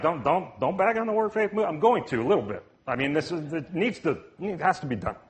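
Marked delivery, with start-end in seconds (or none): 0.0-1.7 lightly acted quick objection; mock protesting listener. Congregant objecting to the preacher's criticism, lightly mocked protest. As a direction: quote a listener protesting, rattled off in a rush. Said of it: "Some of you are like".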